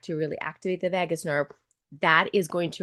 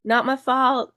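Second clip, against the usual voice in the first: higher, louder, emphatic repeat; insistent repeat; 5 semitones higher, 5 dB louder, slower than usual. Retold or imitated. Retelling a client's excuse, mock insistent second take. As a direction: punch the excuse harder the second time. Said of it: "This is the year".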